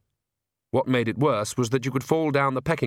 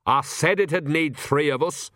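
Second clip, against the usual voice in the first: slow, higher-pitched grumble; put-upon crone; Nanny, grumbling old witch; 4 semitones higher than usual. A narrator's reading. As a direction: complain like an old country witch.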